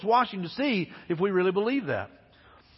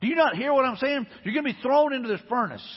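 mock angry king, higher pitch; retold anger; 4 semitones higher than usual. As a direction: imitate an exasperated, angry king, mildly. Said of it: "He's angry, man. He's like".

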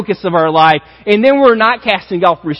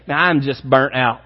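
weary churchgoer; 3 semitones lower than usual. Retold or imitated. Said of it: "you would say".

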